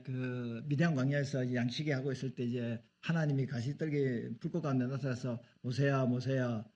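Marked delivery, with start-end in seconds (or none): 5.6-6.6 drawn-out calling of a name; slow call from God. Retold or imitated. God calling Moses from the burning bush, slow and solemn.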